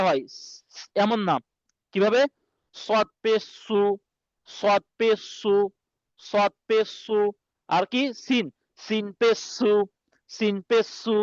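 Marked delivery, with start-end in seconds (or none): 2.8-7.2 সু with rounded lips like a whistle; whistled su. Shown as a demonstration. Teacher shows students the whistling সু sound. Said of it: "একটু মুখ গুল করে". 8.1-11.2 সিন পে সু with a plain hissing s. Shown as a demonstration. Teacher contrasts সিন with the whistled সদ. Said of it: "normal ভাবে pressure কুকারের যে আওয়াজ".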